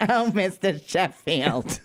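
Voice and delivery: slow, drawn-out imitation of a sitcom nanny; mock nanny calling her boss, lightly voiced; Fran Drescher impression. Imitating the nanny swooning over her boss, slowly. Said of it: "Fran, that would've been the worst".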